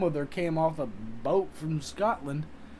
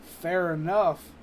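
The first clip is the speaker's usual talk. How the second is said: loud concession; 3 semitones higher, 11 dB louder, slower than usual. Real, not acted. Conceding a chatter's point.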